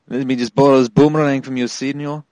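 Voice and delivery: put-on a playful Mexican accent asking to borrow; half-joking Mexican accent with a dropped senor; mock Mexican accent. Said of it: "You pulled that off pretty well".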